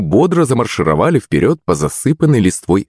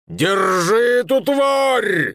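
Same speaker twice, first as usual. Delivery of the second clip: put-on very slow, higher, rough drunken yell; 3 dB quieter, much slower than usual. A narrator's reading. Drunk shouts at the parrot that stole vodka, yelling. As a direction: bellow like a furious drunk. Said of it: "закричал один из них".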